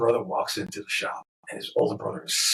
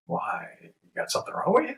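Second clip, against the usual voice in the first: incredulous question; 11 semitones higher than usual. Retold or imitated. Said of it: "And I'm like".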